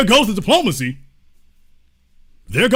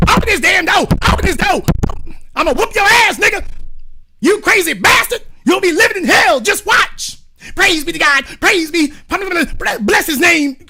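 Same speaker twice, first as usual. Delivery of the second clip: very high, hammed-up threats; mock angry yelling; 9 semitones higher than usual. Angry girlfriend yells at the man locked inside, high-pitched mock fury. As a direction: play a girlfriend shrieking threats through the door. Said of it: "old girl like".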